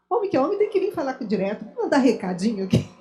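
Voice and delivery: mild retold indignation, quick; a touch of mock exasperation, rattled off; irritated. Woman recalling her annoyance at go-between courting, mildly irritated. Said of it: "Eu me irritava com isso".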